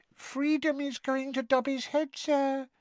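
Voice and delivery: high, mournful little squeak; sad house elf. A narrator's reading. Winky laments Dobby's freedom, sad squeak. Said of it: "said Winky sadly".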